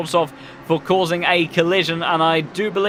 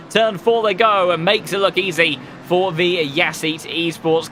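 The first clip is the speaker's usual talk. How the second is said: motorsport commentator. Acted. Live race play-by-play.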